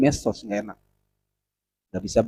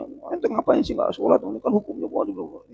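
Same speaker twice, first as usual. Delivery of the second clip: mock scolding; 6 semitones higher, 6 dB quieter than usual.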